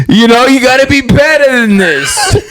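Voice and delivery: high, laughing mock New York trainer; laughing New York coach. Friend joins the joke as a New York coach, laughing. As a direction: push them while cracking up. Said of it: "New York accent".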